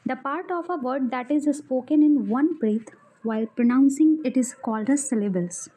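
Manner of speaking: reading a textbook definition slowly, word by word; slow dictation. Acted. Teacher dictating a grammar definition to students, slow and deliberate.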